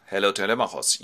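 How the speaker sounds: lightly voiced old man's greeting; Nestor. Old Nestor greets Telemachos, lightly voiced elder. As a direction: answer the eager lad in an unexcited voice. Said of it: "old Nestor is waiting for him".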